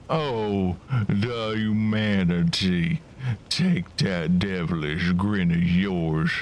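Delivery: mildly put-on weary old codger; a hint of hammed-up dismay; lightly voiced washed-up old codger. Old codger asking the builder who they are, lightly voiced.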